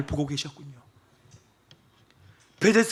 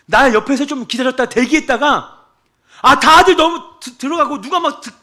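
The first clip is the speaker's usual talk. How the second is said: half-hammed plea from the poolside; mock complaining sick man; 7 semitones higher, 7 dB louder than usual. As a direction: act out his self-pity. Acting out the sick man's complaint.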